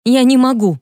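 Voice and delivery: a touch of sobbing refusal. A narrator's reading. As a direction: cry it out from behind a locked door. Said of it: "прорыдала она".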